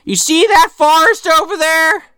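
high, bouncy Santa voice; a chirpy Santa telling kids to stay away; jolly Santa warning. Retold or imitated. Santa warning kids about forest.

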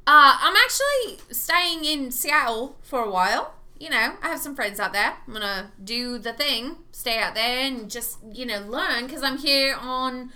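lightly acted English accent; put-on English accent. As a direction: keep up the fake English accent as a cover story. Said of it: "the stronger the accent came".

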